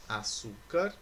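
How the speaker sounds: "açúcar" slow, with the middle ÇÚ drawn out; stress on ÇÚ. Shown as a demonstration. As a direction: lean on the ÇÚ in "açúcar". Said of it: "possuem a penúltima sílaba como sílaba tônica". (açúcar devagar, com ênfase no ÇÚ)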